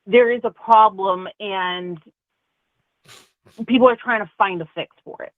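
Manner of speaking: ordinary talk, nothing marked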